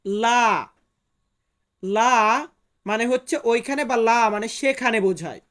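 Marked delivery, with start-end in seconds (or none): 0.1-0.7 Portuguese লা, one clear syllable; Portuguese word. Shown as a demonstration. Teacher models লা for students, careful Portuguese. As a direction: say লা as Portuguese lá, open LAH. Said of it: "Portuguese ভাষাতে বলবো".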